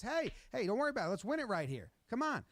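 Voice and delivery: rally him, keep his spirits up; encouraging coach. Retold or imitated. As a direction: coach voiced calming the upset quarterback. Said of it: "Coach says".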